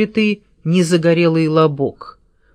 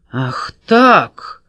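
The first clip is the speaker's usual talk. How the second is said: a short growled retort, louder; 3 dB louder than usual. A narrator's reading. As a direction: growl back in a menacing way. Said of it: "прорычал Тимур".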